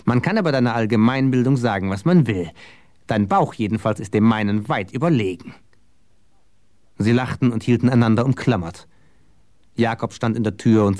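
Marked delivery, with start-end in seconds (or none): 0.0-5.5 measured, mock-solemn announcement; understated ceremonial teasing; solemn proclamation. A narrator's reading. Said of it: "verkündete er feierlich".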